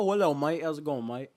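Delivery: rough working-class British mate; British accent. Shown as a demonstration. Showing friends an actual British accent, rough British. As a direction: do a hammy slum-London British greeting. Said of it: "I can do an actual British accent".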